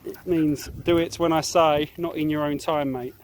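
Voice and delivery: slow, firm scolding; slow strict scolding of the dog; stern telling-off. Real, not acted. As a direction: lay down the rule slowly. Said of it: "have to yell at him".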